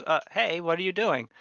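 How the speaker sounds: mild protest at being grabbed; grabbed guard. Acted. Guard to the stranger grabbing him, mildly startled. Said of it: "you grab him about the shoulders".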